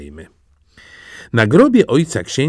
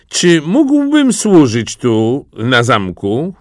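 slow, raised, drawn-out request; humble petitioner; 4 semitones higher, 4 dB louder, slower than usual. A narrator's reading. Disguised prince asking the emperor for work, humble petition. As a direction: ask slowly in a higher voice.

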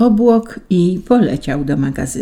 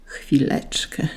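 slow, soft groaned word; angel's groan; 2 semitones lower, 7 dB quieter, slower than usual. A narrator's reading. An angel asking Saint Peter to wait, soft groan. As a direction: groan it out quietly, drawn out. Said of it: "stęknął jeden z aniołów".

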